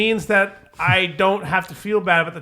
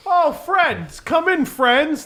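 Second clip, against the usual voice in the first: high, slow, drawn-out welcome; bald guy voice; 6 semitones higher, much slower than usual. Retold or imitated. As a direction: stretch it out like a friendly greeter. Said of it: "he's like".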